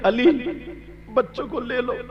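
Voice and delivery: hushed, spoken-not-chanted request; softly told order. Retold or imitated. Prophet asks Ali to take the children, softly spoken.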